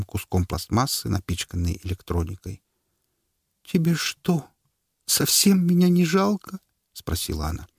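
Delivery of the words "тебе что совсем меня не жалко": high, hurt plea; tearful reproach. Acted. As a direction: whine it out wounded. Wife reproaching husband, tearful. (обиженная жена упрекает мужа)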